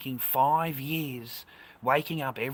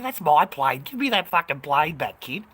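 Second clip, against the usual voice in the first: loud, raised retold outburst; indignant demand; 4 semitones higher, 7 dB louder than usual. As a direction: demand it back from a thieving kid. Confronting a kid who took his plane.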